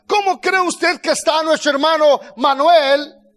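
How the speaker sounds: emphatic, ringing scripture proclamation; full-force preaching. Real, not acted. Preacher proclaiming the verse to the congregation, forceful preaching.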